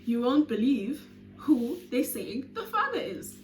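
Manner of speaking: slow, teasing gossip voice, lightly put on; gossipy friend. Friend on the phone teasing the big reveal, slow. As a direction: draw out the juicy news. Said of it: "And Mangi's like".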